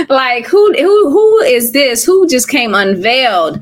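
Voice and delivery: high, slow, amazed who-is-this; a hint of laughing disbelief. Real, not acted. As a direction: marvel at her with a laugh in the voice. Amazed at friend's speaking.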